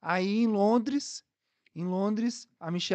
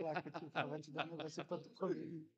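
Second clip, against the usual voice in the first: soft near-whisper; whispering over a crib; 2 semitones lower, 15 dB quieter than usual. Real, not acted. Child fell asleep during podcast.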